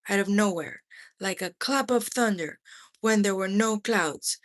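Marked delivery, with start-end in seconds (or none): none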